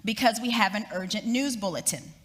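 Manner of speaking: formal announcer reading the bulletin; radio news bulletin. Retold or imitated. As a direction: announce it like an old radio newsreader. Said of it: "It said".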